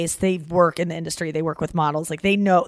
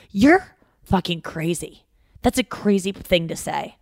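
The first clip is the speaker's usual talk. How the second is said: mock scolding from mom, getting louder at the end; imitating an angry mom; 4 dB louder than usual. Mom at the sink scolding her daughter, mock angry. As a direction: snap back like a fed-up mother. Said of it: "she would be so mad at me".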